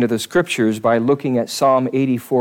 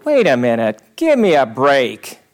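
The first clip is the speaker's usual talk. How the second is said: a mock objector building from firm to loud, much higher protest; indignant objector; 11 semitones higher, 5 dB louder than usual. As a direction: play the offended skeptic, rising to a high shout. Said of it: "somebody might look at that and go".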